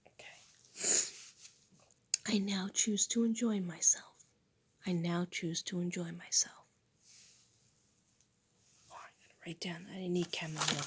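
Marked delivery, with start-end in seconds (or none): 2.3-6.5 affirmation recital. Real, not acted. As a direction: recite each line like a vow. Repeats affirmation.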